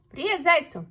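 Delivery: high, loud cheerful call; mole's shout. A narrator's reading. Mole shouts hello to the hare, loud and high. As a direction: shout the greeting up from below. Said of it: "крикнул крот".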